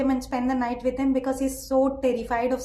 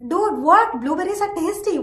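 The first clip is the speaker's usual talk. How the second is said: surprised disbelief; 4 semitones higher than usual. Real, not acted. Reacting to hating blueberries.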